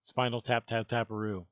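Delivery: normal talking voice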